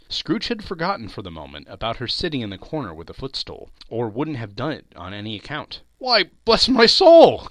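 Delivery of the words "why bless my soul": loud, high, drawn-out exclamation; astonished cry. A narrator's reading. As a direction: cry out in amazement, slowly and high. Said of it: "cried Fred".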